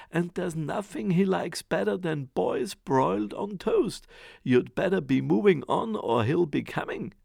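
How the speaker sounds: booming, high warning voice; loud threatening giantess. Acted. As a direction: warn him off loudly like a giantess. Giantess warns Jack off.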